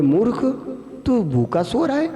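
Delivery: high-pitched scolding demon; bully the sleeper awake as a taunting demon; a demon in the dream scolding the hungry friend. Acted. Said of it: "एक दानव आया और बोले".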